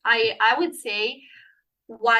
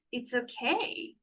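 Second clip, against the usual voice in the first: soothing reassurance; 4 dB quieter than usual. Retold or imitated. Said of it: "just be like".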